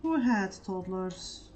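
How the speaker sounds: who had toddlers, slow, with WHO leaned on hard; slow it down and punch "who"; stress on who. Real, not acted. Pointed retort to partner.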